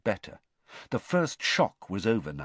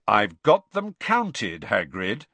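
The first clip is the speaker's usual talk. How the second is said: slow, louder stern warning; 5 dB louder, slower than usual. Acted. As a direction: warn Hagrid off the eggs. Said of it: "said Charlie sternly".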